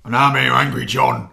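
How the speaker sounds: loud, hammed-up stand-in with a shaky Geordie accent; mock Geordie Angry John. Co-host poses as absent Angry John, unconvincing Geordie. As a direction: badly fake a Geordie, loudly. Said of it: "you don't sound very Geordie".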